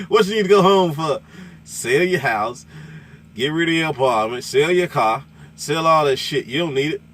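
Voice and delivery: high, loud excited sales pitch; imitating the trucker. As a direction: hype it up like the trucker on the radio. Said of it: "he was like".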